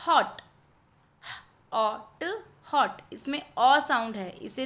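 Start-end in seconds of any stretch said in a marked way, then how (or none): 1.2-2.4 म ए न, each sound split apart and slow; sounding out letters. Shown as a demonstration. Teacher sounding out a word for children, slow and split. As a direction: stretch म ए न into separate sounds. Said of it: "तो यहाँ पर क एट".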